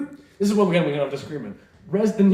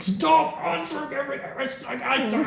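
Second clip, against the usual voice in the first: high uptalk, rising on everything; 11 semitones higher than usual. Shown as a demonstration. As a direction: whine it like a valley girl. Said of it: "stop making every sentence a question".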